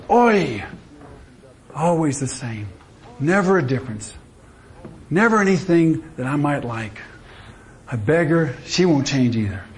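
a hint of a Jewish joke character complaining; Jewish workman. Jewish workman opening his lunch pail, mock lament. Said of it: "The Jew opens up his".

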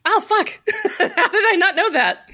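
high, laughing disbelief; surprised. Real, not acted. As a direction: caught off guard and laughing at yourself. Surprised the book came out.

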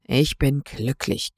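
low, slow grumbling reply; a mild growl of forced contentment. Acted. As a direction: grumble it out reluctantly. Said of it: "knurrte Olaf".

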